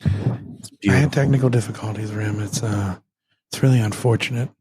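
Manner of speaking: hoarse hushed voice; whispering. Real, not acted. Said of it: "uh, why are you whispering?".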